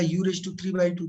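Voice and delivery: very slow, word by word, as if writing it down; slow dictation. Shown as a demonstration. Teacher dictating to students while writing, very slow. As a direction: spell it out slowly for students copying.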